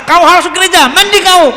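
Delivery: put-on a mother pushing her kid to church; bossy mother. (ibu yang memaksa dengan suara keras)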